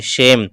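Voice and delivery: शेम with ए sounded, ending on म; silent final e. Shown as a demonstration. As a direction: end शेम cleanly on the "m". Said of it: "ई का अपना कोई उच्चारण नहीं होता".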